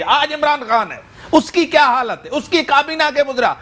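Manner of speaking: speechifying. Real, not acted. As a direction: challenge the guest as if giving a speech. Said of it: "سر، آپ کی تقریر ختم ہو گئی؟". (تقریر کے انداز میں، ٹھہر ٹھہر کر)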